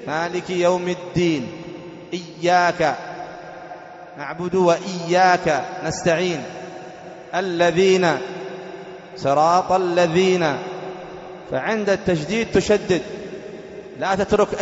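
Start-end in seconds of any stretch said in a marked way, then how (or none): 0.1-10.6 slow, each shadda held and pressed; teacher pressing every doubled consonant; stressing the doubled letters. Shown as a demonstration. Teacher drilling students on shadda, leaning on doubled letters.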